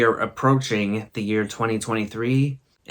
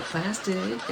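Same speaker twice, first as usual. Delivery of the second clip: put-on higher, softer little-girl plastic; imitating her; 9 semitones higher, 8 dB quieter than usual. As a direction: squeak it out like a small child. Quoting her stubborn answer.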